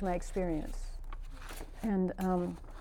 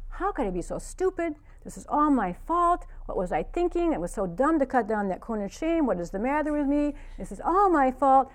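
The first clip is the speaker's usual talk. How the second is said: self-blaming; 4 semitones higher than usual. Retold or imitated. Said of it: "I just turned on myself".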